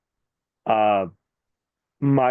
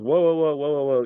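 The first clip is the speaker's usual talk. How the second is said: retold referee intervention; 5 semitones higher than usual. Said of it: "Referee grabs him and goes".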